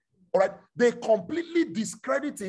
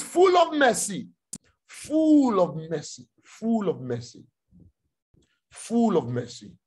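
fading repetition. Acted. Repeating phrase fading.

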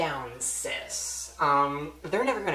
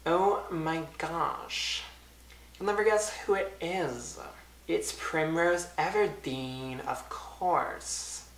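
cheeky Effie; 3 semitones higher, 4 dB quieter, much slower than usual. Acted. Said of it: "Cheeky Effie speech".

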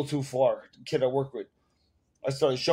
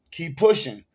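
"keep pushing" said out loud and blunt, a bit louder; 4 dB louder, slower than usual. Retold or imitated. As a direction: say "keep pushing" straight out, loud enough to hear. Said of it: "He's like".

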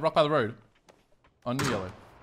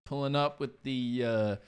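mock Texas accent; slower than usual. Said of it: "How is the Texas accent?".

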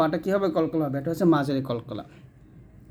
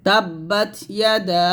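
slow Quran recitation; 2 semitones higher, slower than usual. Shown as a demonstration. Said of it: "teacher recites the verse slowly".

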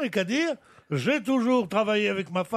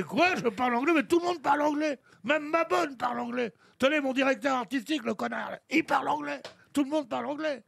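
a pitched-up, indignant director scoffing at the visitor; exasperated circus director; 3 semitones higher than usual. Retold or imitated. Circus director mocks the man who boasts of speaking English, exasperated.

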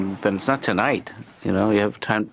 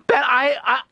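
high raised voice; yelling; 11 semitones higher than usual. Acted. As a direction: yell it to the next room. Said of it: "Don't yell at me".

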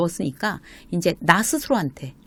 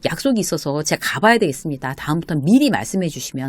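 lower, composed polite refusal; politely standing your ground; firm but polite; 5 semitones lower than usual. Pretend. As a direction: decline courteously but firmly. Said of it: "단호하게 얘기하는 거죠. 정중하게".

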